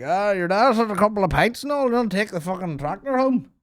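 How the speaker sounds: high put-on voice of a tipsy dad; lightly hammed-up warning from a dad who's had pints; mock drunk dad. A dad telling his son not to drive the tractor, in a high mock voice.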